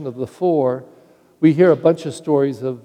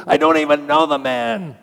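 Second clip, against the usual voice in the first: cussing denial. Acted. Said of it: "cussing and swearing".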